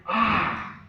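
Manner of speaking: high "Ah!" thrown back; echoed cry. Acted. Mountain answers the fallen little boy, echoing his cry. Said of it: "from somewhere in the mountain which says".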